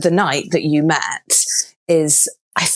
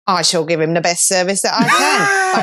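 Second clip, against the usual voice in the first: alternative reading; 3 semitones higher than usual. Shown as a demonstration. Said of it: "she could have said it in a".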